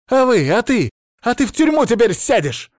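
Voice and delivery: furious threat. A narrator's reading. Therapist screaming at the patient, loud and furious. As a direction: scream that he will go to prison.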